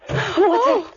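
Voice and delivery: startled gasp. Acted. Startled by banging door in storm.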